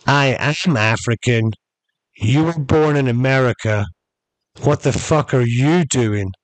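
slow, deliberate retold comeback. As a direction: imitate a measured answer meant for all to hear. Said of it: "Kareem goes loud enough for everybody to hear".

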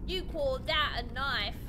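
lightly put-on Australian accent; weird Australian accent. Player quips about a knife in a weird Australian accent. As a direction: do an odd Aussie accent. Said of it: "I don't know why I did a weird accent".

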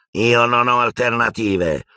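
sudden desperate exclamation; exclaimed. A narrator's reading. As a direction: blurt it out desperately. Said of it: "esclamò Malfoy".

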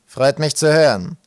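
slow, loud rasp; greedy rasping guide; rasping creature. A narrator's reading. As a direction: rasp it out, drawn out. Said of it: "schnarrte er".

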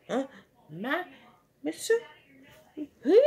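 frightened calls. Retold or imitated. Kid voicing a lost cartoon character, high frightened wail. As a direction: cry out lost and scared. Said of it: "and said".

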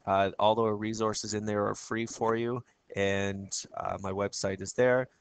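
hoarse, croaky voice; frog voice. Real, not acted. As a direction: talk through a frog in the throat. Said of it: "my apologies for my frog voice".

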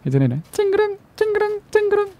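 very high little glass clink; tinkling glass sound. Shown as a demonstration. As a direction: squeak out a delicate tinkle. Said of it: "유리창 깨지는 소리가".

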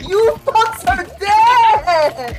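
loud threat with the last line drawn out slowly; furious game taunt, stretched at the end; gamer rage. Real, not acted. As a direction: yell it at the players who got you. Raging at other players.

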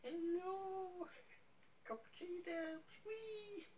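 tiny, very high squeaky voice. Real, not acted. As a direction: say it soft and squeaky, upside down. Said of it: "my accent goes way up high".

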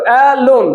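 অ্যালোন in two parts, অ্যা then a stressed লোন; split into syllables. Shown as a demonstration. Teacher showing two syllables, অ্যালোন split as অ্যা-লোন. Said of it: "দেখো দুই ভাবে হবে".

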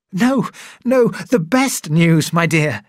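high, loud and drawn-out happy cry; joyful cry. Acted. Man reassuring his sweetheart, joyful loud cry. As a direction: cry out the good news. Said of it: "he cried".

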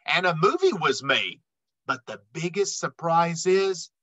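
lively rhyming read-aloud; storybook voice for kids; reading to children. A narrator's reading. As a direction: read the rhymes to a young audience. Reads picture book aloud.

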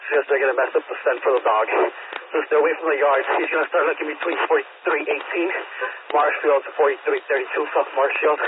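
crackly police radio transmission; talking through a handheld radio; over a radio. Real, not acted. Officer relaying instructions over radio.

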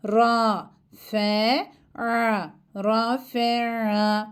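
"Ra" pressed out with a squeezed throat, never read as E. Shown as a demonstration. Teacher shows children the squeezed-throat letter, tight in the throat. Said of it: "boğazımızı bir miktar sıkmamız gerekiyor".

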